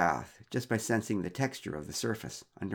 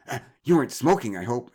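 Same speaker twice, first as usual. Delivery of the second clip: mock suspicious exclamation; 3 semitones higher, 8 dB louder than usual. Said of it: "exclaimed Mara".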